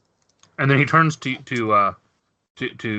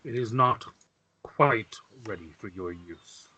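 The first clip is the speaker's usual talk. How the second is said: sighing grandfather; 2 semitones lower, 3 dB quieter than usual. Acted. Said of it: "sighs and he says".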